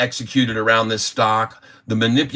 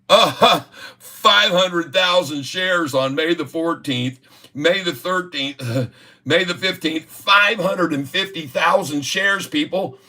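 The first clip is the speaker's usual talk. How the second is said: laughing disbelief; 7 semitones higher than usual. Real, not acted. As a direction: chuckle in disbelief at the figures. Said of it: "Do you understand what I'm trying to prove".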